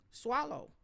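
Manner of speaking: stern command. Shown as a demonstration. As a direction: make a dawdling child swallow. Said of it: "You say swallow".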